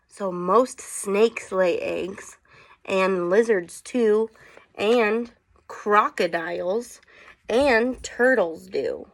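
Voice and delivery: slow, measured picture-book read-aloud; gentle storybook reading pace; reading to children. Acted. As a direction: read the rhyme out slowly for the kids. Reading the book's rhyming text.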